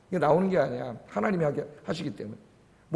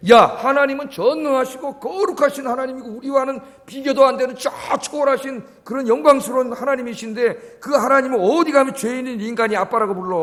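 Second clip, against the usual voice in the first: indignant Jews; 4 semitones higher than usual. Retold or imitated. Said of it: "죽이려고 그랬어요".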